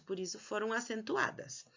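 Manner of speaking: dropped to a whisper. Real, not acted. Teacher to pupils, closing the rule in a whisper. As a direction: whisper the conclusion to the class. Teacher explaining accents to class.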